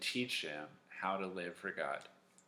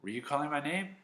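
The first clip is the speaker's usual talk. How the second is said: higher, rising question; questioning boy; 6 semitones higher, faster than usual. Acted. Samuel waking Eli up to ask, higher and questioning. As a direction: ask it in a lightly voiced boy's tone. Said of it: "he's like".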